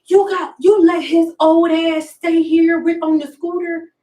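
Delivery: high, mock-angry rant at God; mad at God. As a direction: vent it like a betrayed daughter. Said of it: "I was so mad".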